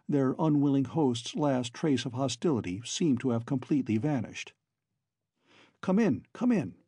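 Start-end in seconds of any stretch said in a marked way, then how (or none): 5.8-6.8 sudden exclamation. A narrator's reading. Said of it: "he ejaculated".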